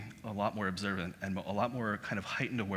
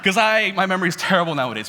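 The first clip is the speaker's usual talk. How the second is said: laughing through the words, louder and higher; giggling while admitting a bad memory; 9 semitones higher, 12 dB louder than usual. Real, not acted. Laughing to Javon about forgetting where he's from, laughing.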